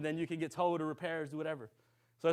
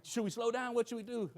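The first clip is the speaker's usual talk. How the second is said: imitating worried questions, higher in pitch; a touch of mock panic, raised pitch; mildly panicked retelling; 5 semitones higher than usual. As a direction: voice their worry lightly, pitched up. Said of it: "everybody's kinda panicking".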